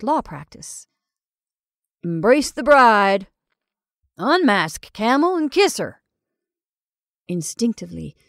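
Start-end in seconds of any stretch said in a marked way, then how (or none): 2.0-6.0 commanding. Acted. Jumbo ordering the kiss.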